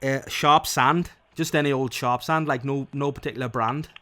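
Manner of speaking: Geordie. Pretend. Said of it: "Now you're Geordie".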